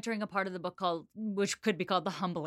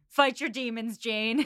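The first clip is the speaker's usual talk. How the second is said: said through a laugh, a little louder; laughing joke; 3 semitones higher, 4 dB louder, slower than usual. Pretend. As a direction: tease with a laugh. Joking pretend quote.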